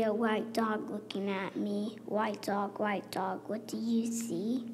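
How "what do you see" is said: whispered question. Acted. Child reading picture book, whispering the refrain. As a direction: hush the refrain.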